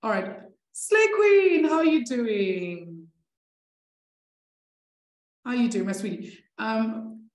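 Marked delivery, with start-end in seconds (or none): 0.7-3.1 excited greeting. Real, not acted. Greeting a student joining the call.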